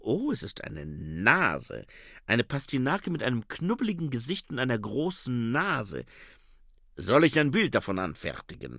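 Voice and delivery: put-on lightly accented vampire voice; a hint of the vampire photographer; Otto Schreck. (leichte Vampirstimme mit Akzent)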